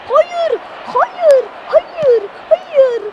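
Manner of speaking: high, loud cries of no, again and again; anguished shouts. Real, not acted. Gamer screaming at his own goal conceded, loud and anguished. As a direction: yell it like the goal just went in.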